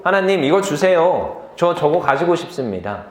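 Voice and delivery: imitated pleading prayer. Preacher voicing a boy's prayer for a bicycle, lightly pleading. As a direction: lightly act out a slow, earnest request. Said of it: "아무튼 그런 기도".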